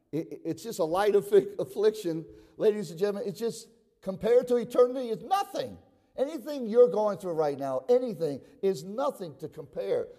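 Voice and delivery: impassioned pulpit appeal; fervent preaching. Real, not acted. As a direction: press it home to the congregation with rising pitch. Preacher rising into exhortation.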